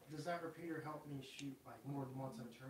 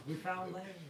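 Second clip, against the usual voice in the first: excited shout; 6 semitones higher, 5 dB louder, slower than usual. Pretend. Raven returns, playful land sighting.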